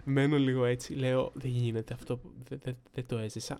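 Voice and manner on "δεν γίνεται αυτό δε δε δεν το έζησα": stunned disbelief. Retold or imitated. Stunned after being yelled at.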